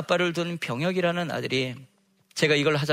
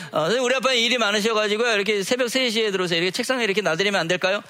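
put-on much higher, louder and rushed, like a kid begging to get out of it; pleading child; 6 semitones higher, 4 dB louder, faster than usual. A pupil begs the teacher to let her leave the letter on the desk. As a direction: plead fast and eagerly, in a child's voice.

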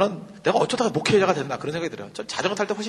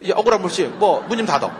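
barking orders; 3 semitones higher, 5 dB louder than usual. Retold or imitated. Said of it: "이제 생각해보세요".

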